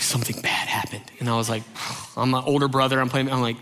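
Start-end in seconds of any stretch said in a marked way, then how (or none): 0.0-1.0 panting, low and breathless report; imitated winded kid, soft and low; out of breath. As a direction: gasp it out after running inside. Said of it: "they're out of breath, panting".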